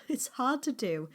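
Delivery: It's hard to do said with a rueful laugh. Real, not acted.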